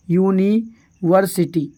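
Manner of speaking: यूनिवर्सिटी said very slowly, syllable by syllable, starting with a clear y sound; slow demo pronunciation. Shown as a demonstration. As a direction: spell out यूनिवर्सिटी slowly for the class, beginning with a y glide. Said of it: "मैं आपको एक example बताता हूँ".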